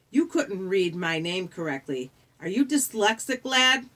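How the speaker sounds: British ferryman, rising to a probing question; suspicious British ferryman. Acted. The ferryman tests Percy over his misread name, suspicious. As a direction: question him with growing suspicion.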